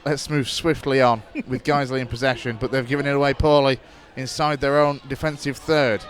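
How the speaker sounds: steady radio match commentary; live play-by-play. Acted. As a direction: call the match as it unfolds.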